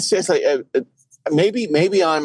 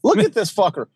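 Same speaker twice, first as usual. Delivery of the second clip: mocking voice; 11 semitones higher than usual. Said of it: "I'm like".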